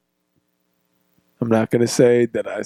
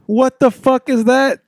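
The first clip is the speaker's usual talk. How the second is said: high, slow disbelief; incredulous; 10 semitones higher, slower than usual. Real, not acted. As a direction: ask it in total disbelief. Incredulous about rematch.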